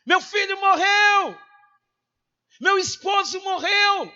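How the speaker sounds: loud, high cry of the bereaved; hammed-up mourner's shout; acted wailing cry. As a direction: wail out the loss at full voice. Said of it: "todo mundo foi chorar".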